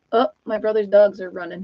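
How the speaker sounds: ordinary delivery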